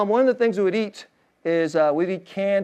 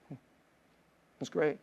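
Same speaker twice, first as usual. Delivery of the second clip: said again much softer, almost to himself; soft repeat; 5 semitones lower, 11 dB quieter than usual. Real, not acted. Pastor softly reassures his mom, much softer. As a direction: let it drop to a hush. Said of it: "But Mom, it was great".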